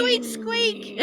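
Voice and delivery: rubbery high squeaky toy; high squeaking. Acted. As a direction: squeak like a tiny rat. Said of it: "And you're squeaking again".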